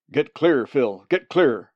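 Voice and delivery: loud warning, last words stretched; urgent warning shout. Acted. Man warns Phil away from the bird, urgent shout. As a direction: bellow a warning to your friend.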